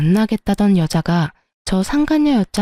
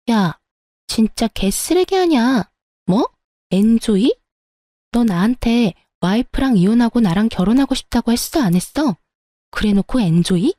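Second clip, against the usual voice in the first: mistress demanding answers; 2 semitones higher than usual. Acted. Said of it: "따지더라고요".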